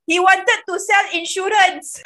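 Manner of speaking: loud and slow, punching the reveal; slow, loud punchline; emphatic reveal. Real, not acted. Punchline of the dating story.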